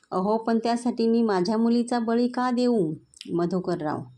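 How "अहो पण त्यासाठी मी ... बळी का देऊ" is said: high, pained outcry; anguished protest. Acted. Father crying out against sacrificing his daughter. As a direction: protest as if wronged.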